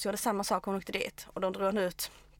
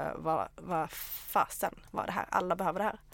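dazed friend; 3 semitones lower than usual. Retold or imitated. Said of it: "hon kom efter och hon bara".

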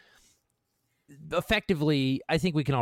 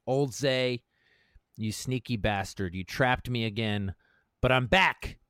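rousing, earnest read of a pep talk; manifesto reading. Acted. Reading his manifesto aloud to a friend, rousing. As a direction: read it like a battle cry to yourself.

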